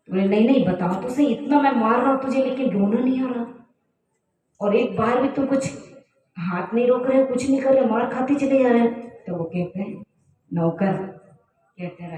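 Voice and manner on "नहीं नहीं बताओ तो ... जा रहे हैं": higher-pitched, lightly acted exasperation; insistent questioning king. King asks beaten servant why he laughs, insistent and baffled. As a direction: press for an answer in baffled disbelief.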